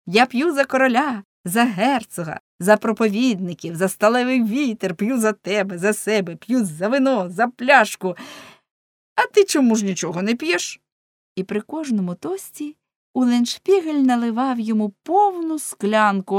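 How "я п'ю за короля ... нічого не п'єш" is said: louder, hearty drinking toasts; rousing tavern toast; boisterous toasting. Acted. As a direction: toast loudly, one thing after another.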